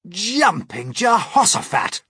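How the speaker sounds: slow, loud, high exclamation; crying out. A narrator's reading. Amazed crew reacting to James's idea, crying out. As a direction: cry it out in amazement. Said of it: "they cried".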